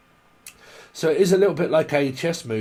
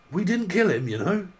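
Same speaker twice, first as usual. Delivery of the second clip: laughing mock quote; 5 semitones higher than usual.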